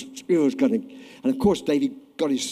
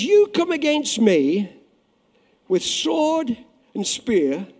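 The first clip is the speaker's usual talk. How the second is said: bold defiant David; 5 semitones higher, 3 dB louder, slower than usual. Acted. David defying Goliath, preached loud.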